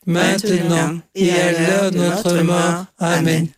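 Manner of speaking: level, monotone rosary chant; choral prayer response. Real, not acted. Congregation answering the leader in the Hail Mary, monotone prayer. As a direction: draw the words out evenly, all together.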